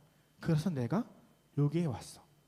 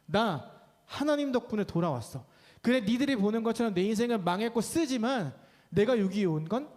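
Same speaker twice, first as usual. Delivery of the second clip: bold confident declaration; 3 semitones higher than usual. Acted. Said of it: "당당하게 들어가서 이렇게 말하는 거예요".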